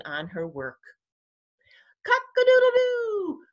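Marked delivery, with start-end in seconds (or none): 2.1-3.4 very high, loud, long crow; rooster crow. A narrator's reading. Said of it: "crowed the rooster".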